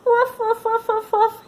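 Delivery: high, loud contented puppy barks; happy barks. Acted. Lucky barking happily while the children pet him. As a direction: bark for joy at the belly rubs. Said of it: "he barked".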